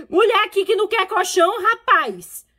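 high, loud indignant protest; mock outrage. Replying to daughter who rejects a mattress gift, mock indignation. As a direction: exclaim it, fresh from laughing.

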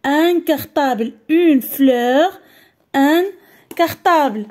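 "Un cartable" répété lentement, plus net; slow model word again. Shown as a demonstration. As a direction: redis "Un cartable" lentement et clairement. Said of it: "لاحظوا معايا في واحد دو مو". ("Un cartable" repris lentement)

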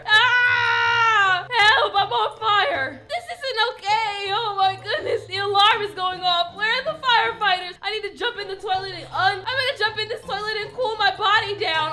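half-laughing hammed-up panic; mock terror, cracking up; panicked yelling. On fire, begging for firefighters in mock panic. Still burning, calling for help.

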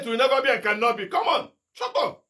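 fast, rising command to be silent; commanding rebuke. Retold or imitated. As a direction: cut the voice off with authority. Preacher commanding the voice.

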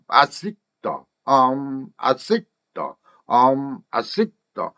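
"I seek the" with no N and a stopped K; reduced "think". Shown as a demonstration. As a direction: break "seek" short before "the". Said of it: "sink를 빨리 하니까 seek".

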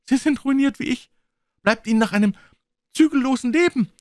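put-on high, loud, agitated young man; crying out. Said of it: "rief der junge Mann". (hoch und laut ausgerufen)

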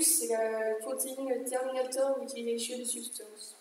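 slow, hammed-up English accent on the acronym; mock English accent. Shown as a demonstration. Student revising reads the protein's name in a mock English accent. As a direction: spell it out slowly like a mock Englishman. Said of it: "une magnifique accent anglais".

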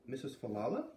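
surprised. Acted. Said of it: "Beat clapped her hand to her mouth".

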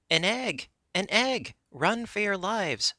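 high-pitched cry of alarm; horrified shout. A narrator's reading. Captain warns his warriors, horrified. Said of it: "in a voice of horror".

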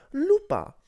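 high, loud delighted cry; excited exclamation. A narrator's reading. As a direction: call out to a dear friend with great enthusiasm. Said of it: "esclamò lei".

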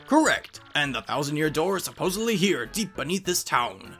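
scholarly storyteller with lively pitch swings; professor explaining lore. Acted. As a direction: lay out the legend like a professor.

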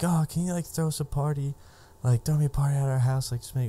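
put-on high, pleading party-girl voice; imitating the birthday girl. Friend asking us to throw her party, in a high mock-girly voice. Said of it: "and she's like".

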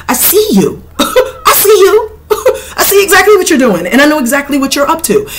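high, laughing I see you; laughing taunt. Acted. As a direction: taunt them while cracking up. Taunting the caught deceiver.

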